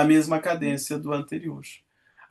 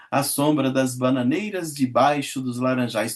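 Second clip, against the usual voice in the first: lower, measured verse reading; poem recitation; 4 semitones lower than usual. Acted. Teacher reading Meus Oito Anos to class, recited lyrically. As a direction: recite it like a school poem, savouring each line.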